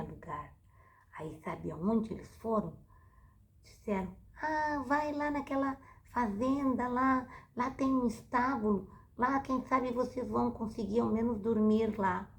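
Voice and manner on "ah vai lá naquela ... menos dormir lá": innkeeper voice. Acted. Innkeepers send them to stable.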